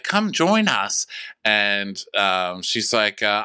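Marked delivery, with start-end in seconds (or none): 0.0-1.1 drawn-out high invitation, teasing; slow high mock invite. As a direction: lure her over with a slow sing-song.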